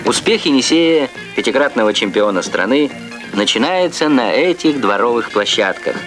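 formal Soviet TV narrator. Real, not acted. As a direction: archival broadcast recording. Archival Soviet TV report.

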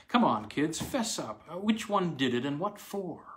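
lightly voiced woman, a touch of irritation; a hint of a puzzled, vexed housewife; annoyed young stepmother. Aileen presses the children.

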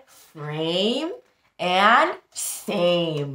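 frame and same set apart; rhyme stressed. Shown as a demonstration. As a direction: say each rhyme on its own. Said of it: "What two rhyming words did you hear".

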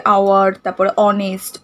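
"আওয়ার" and "অনেস্ট" begun on open vowels; silent H. Shown as a demonstration. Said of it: "ওয়ের উচ্চারণটা আসছে".

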